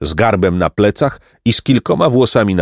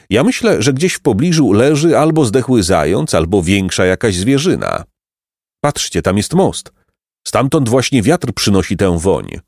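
lightly voiced boy. Jacek guessing the source of the stench, curious. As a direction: sniff and reason aloud.

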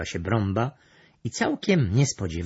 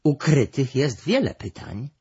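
higher-pitched, louder cat; meowing cat voice; 6 semitones higher, 5 dB louder than usual. A narrator's reading. The cat finds many questions hidden in one, meowing. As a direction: finish the thought as a mewing cat. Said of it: "miałknął kot makawity".

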